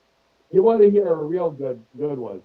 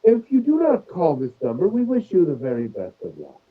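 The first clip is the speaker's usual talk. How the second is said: 1 British scam caller; 3 semitones higher than usual. Retold or imitated. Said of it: "lady with a British accent".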